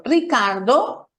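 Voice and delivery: "Ricardo" slow, lifted at the end, then a pause; vocative with pause. Shown as a demonstration. Teacher calling the name as an example, "Ricardo" rising before a pause. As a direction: hold "Ricardo" up as if at a comma. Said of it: "hay una coma, una pausa".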